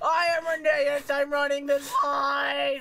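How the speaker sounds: shrill, very high, loud yell, stretched long. Voicing an engine character running the line: loud. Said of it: "Jeez, that was loud".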